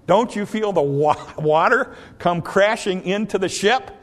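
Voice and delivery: rising alarmed questions; panicked plea. Pretend. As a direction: plead with the sleeping master, in alarm. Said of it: "Here's what I would say".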